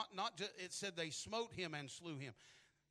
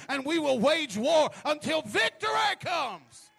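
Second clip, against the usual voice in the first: roaring rallying speech; 8 semitones higher, 17 dB louder than usual. Pretend. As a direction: roar it like leading troops. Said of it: "a spirit that is rising up tonight that says".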